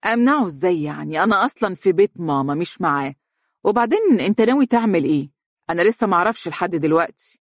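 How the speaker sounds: fast, annoyed complaining; irritated, rapid grumble; exasperated. Acted. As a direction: huff through it, fed up. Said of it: "قالت بتأفف".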